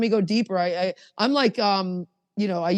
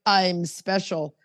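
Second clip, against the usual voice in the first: slow, self-important mock boast; lightly arrogant put-on declaration; slower than usual. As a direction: imitate someone arrogant, drawing the words out. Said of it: "you're very arrogant".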